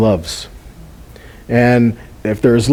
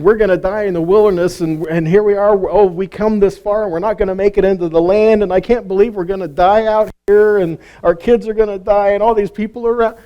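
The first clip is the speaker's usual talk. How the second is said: higher, half-hearted whining lament; mock wailing; 5 semitones higher than usual. Preacher mimics the moaning Israelites, mock wailing. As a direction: lightly act out the people's moaning. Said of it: "wailing and moaning and saying".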